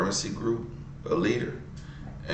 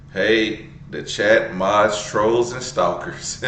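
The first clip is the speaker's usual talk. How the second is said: mock greeting; 3 semitones higher, 5 dB louder, slower than usual.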